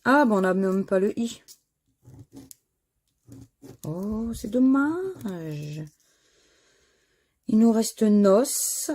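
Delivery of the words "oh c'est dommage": slow, dragged-out sigh of regret; long, slow "c'est dommage"; drawn-out disappointment. Real, not acted. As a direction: let the letdown stretch out slowly. Disappointed at missing letter.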